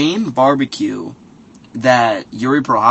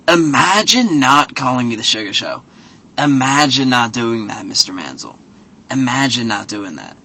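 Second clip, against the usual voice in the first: mocking impression. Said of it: "and he's like".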